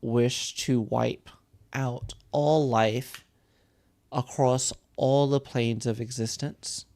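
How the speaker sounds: weighty, deliberate telling of dark lore; game master lore narration. Acted. Game master telling a player about the demonic plague, solemn narration.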